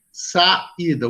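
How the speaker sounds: "saída" split into sa-í-da; vowels separated. Shown as a demonstration. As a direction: pull a and í apart in "saída". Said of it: "duas vogais separadas". ("saída" separando as vogais, sa-í-da)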